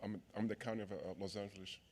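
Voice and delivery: nervous halting stammer; stumbling over words with nerves; stage fright. Real, not acted. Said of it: "I'm a little nervous".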